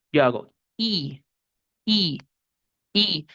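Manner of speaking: "I" stretched long with a wide smile; smiling long I. Shown as a demonstration. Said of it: "la I de la sonrisa". ("I" larga, sonriendo)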